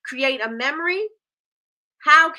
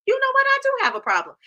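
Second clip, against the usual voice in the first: sudden realization; 4 dB louder, faster than usual. Pretend. Customer suddenly realizing a need.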